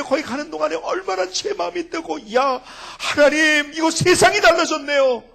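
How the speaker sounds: loud, high, joyful sermon cry; ecstatic preaching. Acted. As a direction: exult over the changed world.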